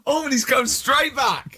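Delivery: high, slow squeal after a burst of laughter; helpless amusement. Real, not acted. Cracking up at co-host's blunt remark.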